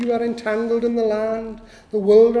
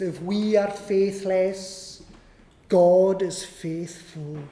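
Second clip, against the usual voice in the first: like sharing a beloved promise; slow tender quote; slower than usual. Real, not acted. Slowly quoted treasured verse.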